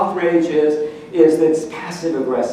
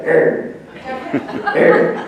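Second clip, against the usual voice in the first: fist-shaking growl; 2 semitones lower than usual. Shown as a demonstration. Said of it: "I shake my little fist at them".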